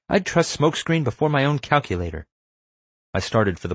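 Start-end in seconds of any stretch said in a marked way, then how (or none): 0.1-2.3 high-pitched, spirited retort; high, insistent comeback; shooting back. A narrator's reading. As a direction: defend a friend in a high voice. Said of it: "Zoe shot back".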